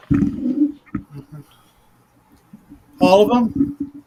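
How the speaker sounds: high, slow, doubtful clerk voice; a dubious official, drawn out; skeptical NPC. Acted.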